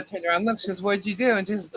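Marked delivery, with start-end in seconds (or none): 0.8-1.4 mock shocked shout. Mother sees shaved child.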